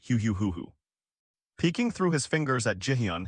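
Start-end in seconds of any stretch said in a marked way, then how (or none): 0.1-0.7 mildly faked sob, read aloud; half-hearted mock boo-hoo; fake sobbing. A narrator's reading. Cholsu covers his face before the crowd, faking a mild sob. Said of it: "faked covering his face and sobbed".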